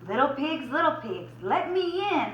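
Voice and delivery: mock howl. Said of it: "howled the wolf".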